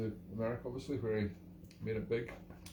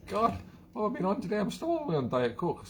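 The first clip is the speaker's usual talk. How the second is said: flustered; 8 semitones higher than usual. Real, not acted. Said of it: "Speech goes all to pot".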